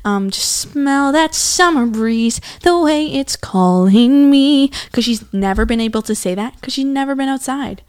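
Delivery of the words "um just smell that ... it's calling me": high, slow, breathless delight; excited princess. Retold or imitated. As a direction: gush over the dirt like a freed princess. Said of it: "she's like".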